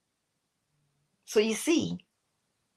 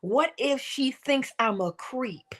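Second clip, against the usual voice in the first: slow rehearsed worry; 4 semitones higher, 4 dB quieter, slower than usual. Shown as a demonstration. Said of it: "That's what you're rehearsing".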